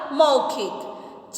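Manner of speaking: मौखिक said very slowly; slow demo word. Shown as a demonstration. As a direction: stretch मौखिक with a long औ. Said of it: "तो क्या बन गया".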